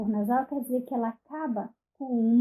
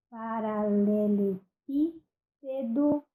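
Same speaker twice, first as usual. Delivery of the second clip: slow example word; 3 dB louder, much slower than usual. Shown as a demonstration. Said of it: "Então, nós temos".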